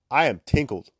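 mock-serious, barely holding back a laugh; attempted straight face. Shown as a demonstration. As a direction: try to say it deadpan before cracking up. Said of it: "you can't say it with a straight face".

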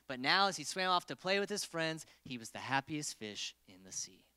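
storybook read, lively then hushed; reading to children. Acted. Youth pastor reading The Rainbow Fish aloud, storybook voice. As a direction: read it like bedtime story time.

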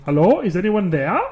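spooky ghost voice. Pretend. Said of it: "Probably not in that voice".

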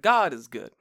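lightly voiced preacher, punched first word; a hint of pulpit declaration. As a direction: proclaim it like a preacher. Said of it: "The guy's like".

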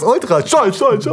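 high, fading echo repeats; echo effect. Pretend. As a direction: make the word echo away. Joking echo of the word.

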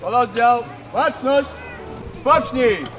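barked parade-ground commands; drill sergeant. Acted. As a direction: call the drill orders to the troop. Cavalry unit drill commands.

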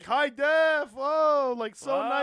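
loud, high imitated delight; impressed grandpa. Grandpa raving about the video quality, delighted. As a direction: exclaim it in accented amazement. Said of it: "he's like, he's like".

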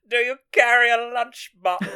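high, loud laughing quote; Chelsea's line, hammed-up and high; mock snooty quip. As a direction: sneer it through laughter.

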